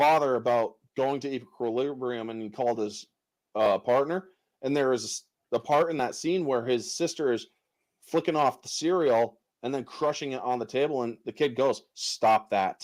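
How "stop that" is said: put-on deadpan, flat, toneless monotone. Retelling a film scene where a kid reacts to cereal being crushed, in flat monotone. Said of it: "In such a monotone way".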